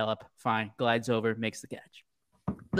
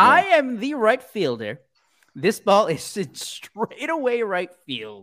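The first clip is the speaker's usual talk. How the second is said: much higher, exasperated teammate voice, laughing on the name; mock Eloy rant; 7 semitones higher than usual. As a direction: squeak out an annoyed outfielder scolding his teammate. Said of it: "and he's like".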